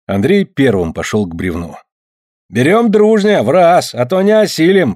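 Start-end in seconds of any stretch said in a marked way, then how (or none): 2.5-4.9 put-on raised, urging voice of old Afanasy; rally the men to lift together; firm warning. Afanasy warns the men before lifting, urging. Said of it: "предупредил Афанасий".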